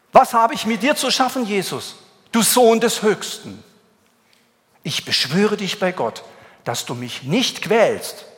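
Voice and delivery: demon crying out loud and high. Acted. Preacher reads the demon crying out to Jesus, loud and high. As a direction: cry out the demon's plea loudly. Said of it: "Und schrie mit lauter Stimme".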